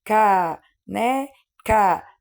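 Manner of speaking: "Ca, né, Ca" in three separate beats; syllables counted aloud. Shown as a demonstration. Teacher counting syllables with pupils, "Ca, né, Ca" separated. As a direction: say "Ca, né, Ca" one syllable per mouth opening. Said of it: "Quantas vezes eu abro a boquinha".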